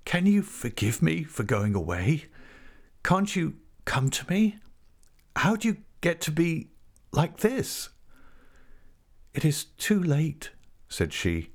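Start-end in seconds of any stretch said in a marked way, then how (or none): 0.1-7.9 husky, high-pitched plea; pleading with a touch of huskiness. A narrator's reading. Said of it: "he said huskily". 9.3-10.5 high, hard-edged refusal; hard and final, pitched up. A narrator's reading. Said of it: "her voice sounding hard through the room".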